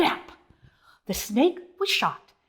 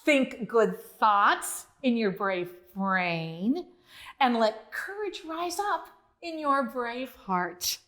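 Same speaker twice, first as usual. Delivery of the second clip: gentle reassurance; 2 semitones lower than usual. Retold or imitated. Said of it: "He says".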